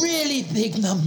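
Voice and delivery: put-on French accent. Same French-accented character.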